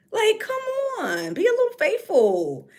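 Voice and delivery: high, loud pleading; pleading exasperation. Real, not acted. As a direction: beg him to be faithful. Pleading at a singer.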